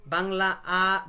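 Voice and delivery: আ held long as an open Bengali A; vowel demo. Shown as a demonstration. Teacher models the Italian vowel, slow Bengali আ. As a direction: draw out আ slowly. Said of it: "বাংলার আ এর মতো".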